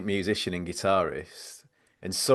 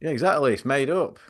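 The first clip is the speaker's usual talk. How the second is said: put-on higher blustering old gent; pompous old gent; 4 semitones higher than usual. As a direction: rant like an outraged old gentleman. Keeps pompous character ranting.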